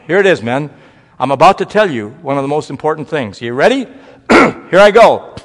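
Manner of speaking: mildly mock the preacher stalling his men; teasing a preacher. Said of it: "And he kept saying".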